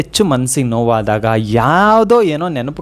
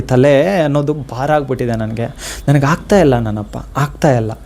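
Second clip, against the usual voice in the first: heartfelt prayer; 3 semitones lower than usual. Acted. Prays aloud to Rayaru.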